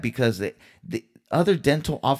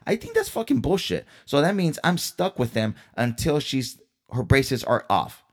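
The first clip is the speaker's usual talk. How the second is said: getting heated; 4 semitones higher than usual. Real, not acted. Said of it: "I'm getting a little bit heated".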